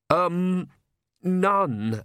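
put-on timid, apologetic young priest, stumbling over words; fretful clergyman who can't get a sentence out; nervous stammering priest. Priest Oates speaks.

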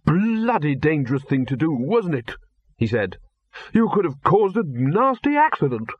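put-on a bossy old master telling off his bursar; gruff Arch-Chancellor.

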